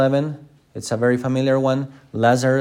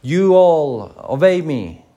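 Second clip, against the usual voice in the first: slow, higher mock-royal command; 4 semitones higher, 4 dB louder, slower than usual. Imagined Jesus demanding that all obey him, commanding. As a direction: draw it out as a kingly order. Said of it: "and say".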